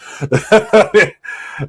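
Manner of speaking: loud, high burst of laughter; amused laugh. Real, not acted. Amused by the film title.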